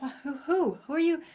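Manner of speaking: hammed-up shock, who me; mock bewilderment. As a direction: act out being stunned and confused. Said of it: "I'm like".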